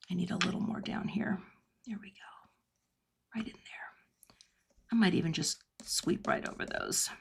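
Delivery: very soft, whispery self-talk; voice dropped in concentration. Real, not acted. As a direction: murmur it while absorbed in the work. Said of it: "my voice drops".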